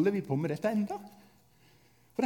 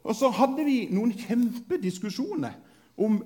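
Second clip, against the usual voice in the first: ordinary delivery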